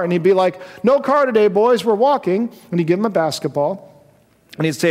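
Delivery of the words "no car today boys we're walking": louder, upbeat fatherly call; hearty dad announcement; cheerful dad. Retold or imitated. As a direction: make walking sound like fun. Dad announces walking to school.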